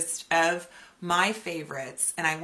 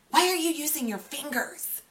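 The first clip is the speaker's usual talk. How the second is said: mock scolding; 9 semitones higher than usual. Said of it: "it's like they're scolding me".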